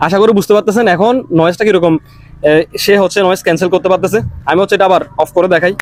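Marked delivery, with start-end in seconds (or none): 0.1-4.2 noise cancellation. Real, not acted. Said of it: "noise ক্যান্সেলেশনটা on করে দিই".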